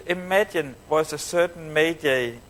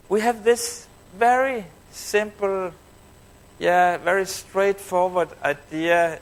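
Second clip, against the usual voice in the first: slow, drawn out with suspenseful pauses; cliffhanger delivery; 2 semitones higher than usual. Retold or imitated. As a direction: imitate her teasing build-up, holding back the reveal. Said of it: "cliffhanger communication".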